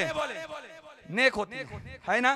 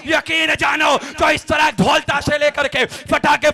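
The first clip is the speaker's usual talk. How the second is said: raised, scolding preacher's shout; fiery rebuke; 5 dB louder than usual. Real, not acted. Imam warning the shrine crowd, raised scolding shout.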